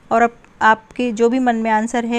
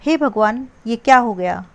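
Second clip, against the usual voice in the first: a dismayed oh my God; mild acted dismay; shocked exclamation. Shown as a demonstration. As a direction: cry out at the sudden mess. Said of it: "कुछ शब्द विस्मयादिबोधक अव्यय का काम कर रहे हैं".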